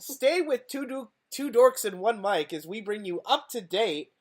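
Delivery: polished news anchor read; newscaster voice. Acted. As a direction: announce it like a TV anchor. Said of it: "that's a nice newscaster voice".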